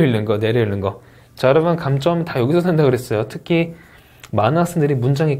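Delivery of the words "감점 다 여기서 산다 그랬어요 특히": ordinary talk, nothing marked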